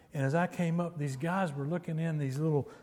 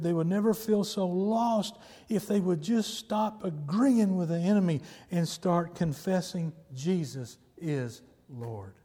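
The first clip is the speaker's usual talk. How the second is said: raised, insistent preacher's delivery; emphatic preaching; 4 semitones higher, 4 dB louder than usual. Real, not acted. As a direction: drive each point home to the congregation. Preaches with force to congregation.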